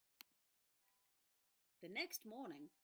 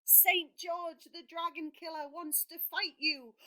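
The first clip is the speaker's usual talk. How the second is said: higher, louder urgent news; breathless warning; 7 semitones higher, 9 dB louder than usual. Acted. Boy warns the dragon about George, breathless and urgent. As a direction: rush the warning out. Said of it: "gasped the boy".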